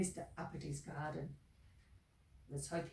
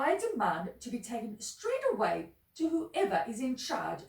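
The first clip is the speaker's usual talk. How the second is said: angry voice; 5 semitones higher, 4 dB louder than usual. Acted. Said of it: "with an angry voice".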